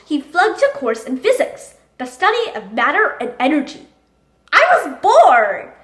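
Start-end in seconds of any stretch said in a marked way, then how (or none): 4.5-5.7 loud, drawn-out whine of complaint; loud protest. Acted. Young Einstein excuses his grades to his father, loud protest. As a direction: protest it slowly, higher and much louder.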